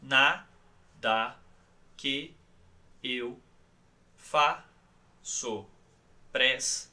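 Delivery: "Nada que eu faço presta" with long pauses between each word; one word at a time, stretched slow like a third person; very slow, syllable by syllable. Shown as a demonstration. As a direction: drag every syllable out on one breath each. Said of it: "dizendo muito devagar".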